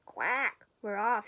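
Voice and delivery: loud, eager duck cry; loud quack. A narrator's reading. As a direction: call out the takeoff, quacking. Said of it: "said the duck".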